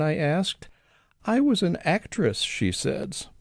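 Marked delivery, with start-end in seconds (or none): 1.2-2.4 wistful, with the weight on actress; wistful stress on actress. Retold or imitated. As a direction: lean into actress, then a wistful sigh on was. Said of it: "with an emphasis on the word actress and a wistfulness in the word was".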